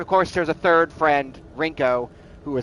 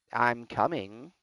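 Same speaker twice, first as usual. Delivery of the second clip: creepy threat; 4 semitones lower, 8 dB quieter, much slower than usual. Pretend. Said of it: "Sounded like a threat".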